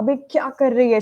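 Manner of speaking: put-on loud, high shouting. Retelling a batchmate's reaction to seeing an insulin injection: imitating someone shouting loudly. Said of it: "She just shouted, like, very loudly".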